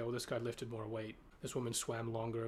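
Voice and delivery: normal talking voice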